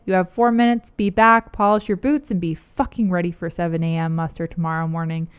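a light read of a barking drill officer; hint of a drill sergeant berating recruits, mostly own voice; lance corporal. Lance corporal greets fresh recruits, lightly voiced and gruff. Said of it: "let me read this one more time".

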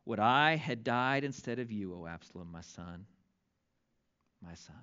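hushed, broken father's lament; grieving lament. Acted. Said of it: "And thus he said as he walked".

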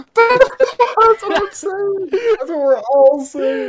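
high, slow words broken by laughter; laughing hard. Real, not acted. Friend agreeing about John while laughing hard, high and slow.

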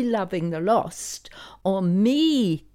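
slow hushed whisper. Real, not acted. Hushed realization about Jesus.

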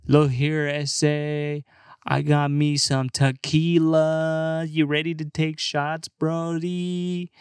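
lightly voiced drawling party bro; a hint of a tipsy bro offering shots; overfamiliar bro. Acted bro pushing tequila shots.

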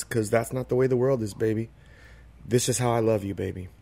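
put-on quietly resigned, letting each baby fall away; a hint of the lover's weary resignation; sad and resigned. Lover answering his partner's plea, mildly resigned and hushed. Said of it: "it's a sad and resigned the way he says it".

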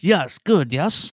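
loud, pleased prodding; booming expectant orc; eager orc. Acted. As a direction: push them to agree it's tasty.

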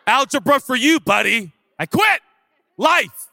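high, loud mock wail of giving up; hammed-up cry of defeat; mock despair. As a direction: whine it like quitting life over a math test. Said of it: "popped up in front of me and said".

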